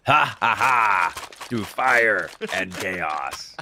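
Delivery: slow, drawn-out evil laugh line; maniacal yell. Retold or imitated. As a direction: cackle it slowly like a villain. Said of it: "and then Connor yelled".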